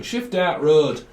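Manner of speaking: lightly put-on northern English accent; a touch of northern English accent. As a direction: say it like someone from up north. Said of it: "Someone from up north".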